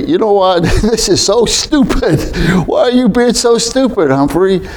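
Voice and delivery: wife laughing him out of his anger. Retold or imitated. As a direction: tease him through a laugh. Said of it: "she just started laughing at me".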